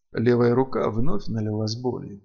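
usual speaking voice

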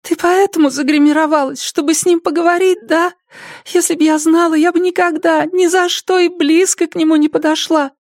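put-on high young girl's answer. Tearful Zoe. (тихий высокий голос девушки)

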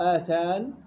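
short آتان closed on a still nun; pure sukun. Shown as a demonstration. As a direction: end آتان on "n" without any vowel. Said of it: "بسكون محض". (آتان بسكون محض)

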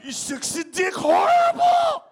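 mock woman's voice. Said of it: "What's your name, Monica?".

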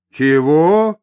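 loud, drawn-out hostile "what?"; surprised and hostile. A narrator's reading. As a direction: challenge it in hostile disbelief. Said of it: "удивлённо и враждебно спросил". (удивлённо и враждебно)

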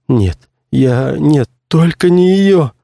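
high, slow, pleading moan; a lightly voiced actor groaning in despair; moaning plea. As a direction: beg desperately, stretching out её. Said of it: "простонал актёр".

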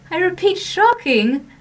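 giggly, amused scolding, lifting on repeat; giggling mock outrage. A narrator's reading. A hidden girl teasing the angry young man, giggling.

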